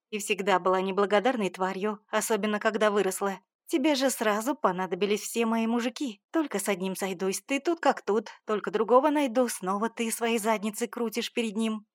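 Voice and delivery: mother viciously accusing daughter; venomous mother. Acted. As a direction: spit out the jealousy.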